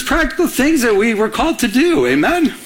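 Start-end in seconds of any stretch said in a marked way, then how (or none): none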